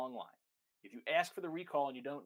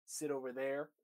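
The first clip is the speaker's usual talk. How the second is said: muddled owner; slower than usual. Retold or imitated. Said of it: "when people say".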